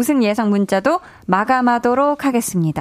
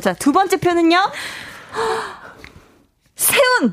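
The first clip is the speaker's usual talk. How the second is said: dramatic reveal; 8 semitones higher than usual. Acted.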